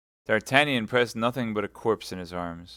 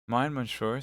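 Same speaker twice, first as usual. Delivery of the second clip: dying voice; 4 semitones higher than usual. Acted. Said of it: "in a dying voice".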